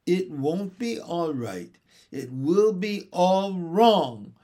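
acted childish wail, stretching the last words. A narrator's reading. Baby Barbara into her pillow, wailing. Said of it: "wailed Barbara".

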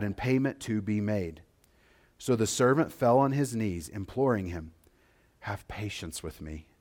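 measured reading of the Bible passage; scripture reading. Acted. Pastor reads Jesus' parable aloud to the congregation, measured scripture reading. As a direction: read the parable with gravity.

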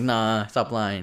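very slow, drawn-out disbelief. Retold or imitated. Nephew doubting uncle's story, slowly drawn out. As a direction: stretch it out, not buying it. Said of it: "I'm like".

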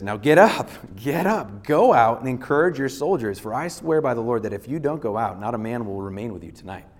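loud urgent order to get up; stern command. Acted. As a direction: rouse a grieving king with a sharp, loud command. Joab rebukes the king.

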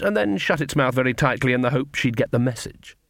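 usual speaking voice

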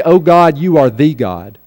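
"the" said as a full "thee"; stress on THE. Shown as a demonstration. Preacher showing what David doesn't say, stress on THE. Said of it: "Notice what David doesn't say".

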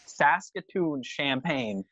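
slow, drawn-out mimicry of a guy; imitating the host. Quoting his champagne name to a friend, slow imitation. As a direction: lightly mimic him, stretching the words. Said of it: "That's what he called it".

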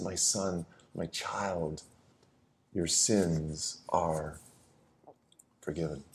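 soft and very slow, tender forgiveness. Acted. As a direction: hush it down gently, like a blessing. Jesus forgives the man, tenderly.

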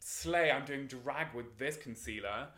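slow, drawn-out camp gushing; camp diva client. Retold or imitated. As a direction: drawl it like a drag fan. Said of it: "she was going like".

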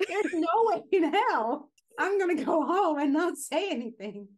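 loud, high rant with a laugh; comic outrage. Pretend. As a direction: rant at full volume, half laughing. Comic rant about confronting spouse.

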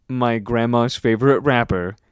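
lightly played spelling-bee pronouncer; deliberate, measured example sentence; spelling bee announcer. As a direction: use it in a sentence, slowing down on the name. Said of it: "like a fucking spelling bee".

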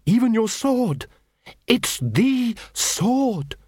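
high, drawn-out awe; awed high. Acted. Cruces revealing the sword to Carrot, awed. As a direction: let the revelation lift it high.

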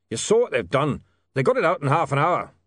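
lightly voiced dwarf printer, worried; a hint of a stubborn dwarf grumbling; gruff dwarf. A narrator's reading. Dwarf foreman telling William about the rival presses, lightly voiced.

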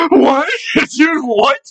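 high, incredulous outburst with laughter; shocked disbelief. Retold or imitated. Driver hears blood is in his pee, incredulous. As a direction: act out being stunned, pitch leaping up. Acts out shock at test result.

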